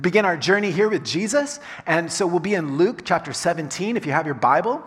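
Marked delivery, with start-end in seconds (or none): none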